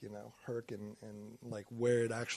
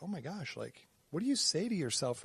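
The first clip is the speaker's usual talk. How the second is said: higher-pitched wife impression, lightly done; imitating wife; 6 semitones higher than usual. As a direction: lightly voice a wife questioning her husband. Retelling wife's concerned question.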